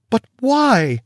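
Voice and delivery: high, loud demand; sharp high demand. A narrator's reading. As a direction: demand an answer, shocked. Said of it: "demanded Hecate".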